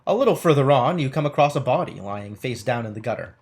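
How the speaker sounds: measured game-book narration; story narration. Acted. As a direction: read it out like an adventure storyteller. Reads game text aloud.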